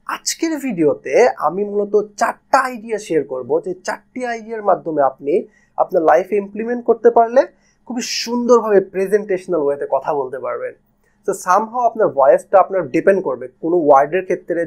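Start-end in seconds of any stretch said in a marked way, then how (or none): 0.1-10.7 lively intonation. Shown as a demonstration. Teacher demoing a lively intro after the boring one. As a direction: make the intro sound engaging. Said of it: "কিন্তু এই, ঠিক এই ক্ষেত্রে আমি যদি বলি".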